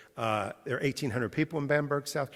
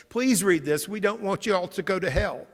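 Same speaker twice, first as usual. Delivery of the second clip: little boy's plea, higher and louder, mildly imitated; retold tearful plea; 8 semitones higher, 7 dB louder than usual. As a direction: plead urgently like an upset child, without real sobs. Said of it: "he starts crying and goes".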